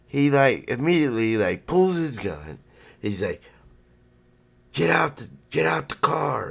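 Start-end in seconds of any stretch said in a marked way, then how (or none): 4.7-6.5 high-pitched urgent command from the cop; cop's yelled order. Retold or imitated. Cop with drawn gun orders driver out, high urgent yell.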